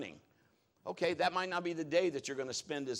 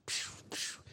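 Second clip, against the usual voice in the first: imitated whooshing; 7 dB quieter than usual. Imitates enemy's incoming attacks.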